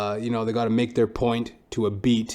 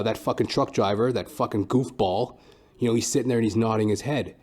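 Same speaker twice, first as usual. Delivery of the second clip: ordinary talk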